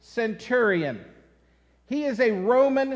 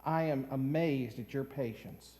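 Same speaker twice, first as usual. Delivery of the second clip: admiring stranger; 6 semitones lower, 5 dB quieter than usual. Retold or imitated. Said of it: "he says".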